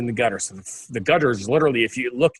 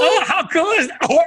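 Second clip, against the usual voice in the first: awed; 4 dB louder than usual. Pretend. Imitating wonder at icicles.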